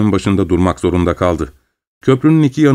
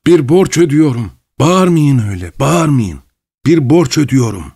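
higher-pitched, mildly teasing; sniggering, joking; 4 semitones higher than usual. A narrator's reading. Pavel Pavlovich teases Vilchanov from the carriage, jokingly. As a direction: toy with the listener, lightly. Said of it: "diye kıs kıs güldü Pavel Pavlovich ve şaka yollu".

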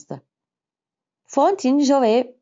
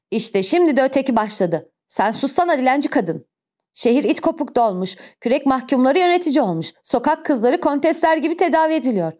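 contemptuous tirade, rising in pitch; scornful outburst climbing higher; angry rant; 5 semitones higher than usual. Acted. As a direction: rail at them with building outrage. Javert rants at woman and city.

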